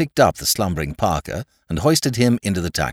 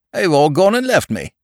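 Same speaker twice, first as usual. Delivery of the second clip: put-on drunken tearful wail; 9 semitones higher, 5 dB louder than usual. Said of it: "bursting into tears".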